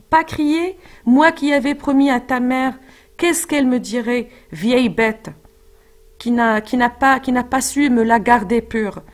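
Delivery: lightly voiced nurse, reproachful; indignant nurse. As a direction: protest in mild indignation. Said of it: "elle continue à l'accuser".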